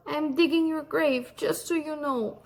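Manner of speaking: lightly acted tearful threat; mock sobbing. A narrator's reading. Gnome says she is digging his grave, mock sobbing. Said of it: "she sobbed".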